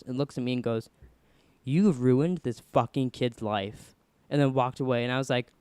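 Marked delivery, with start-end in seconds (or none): 1.6-3.9 slow, weighty mock reproach; retold accusation. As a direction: imitate a counselor laying blame word by word. Counselor's retold accusation in passing.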